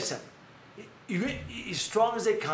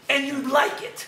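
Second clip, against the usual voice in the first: laughing tag line; 8 semitones higher, 6 dB louder, slower than usual. Retold or imitated. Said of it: "He says".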